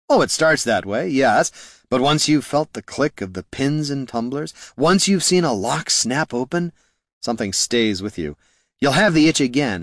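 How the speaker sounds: wistful rogue voice. Acted. Haraldin wistful confession.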